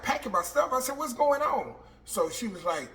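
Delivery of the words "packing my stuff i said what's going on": can't believe she's being told to pack; shocked disbelief. Retold or imitated. Inmate to officer, stunned and raised.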